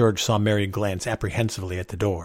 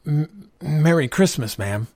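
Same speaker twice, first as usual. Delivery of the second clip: higher, slow, halting start; faltering greeting; 6 semitones higher, slower than usual. A narrator's reading. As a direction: voice almost failing, stammer the first word. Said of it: "George's voice almost failed him".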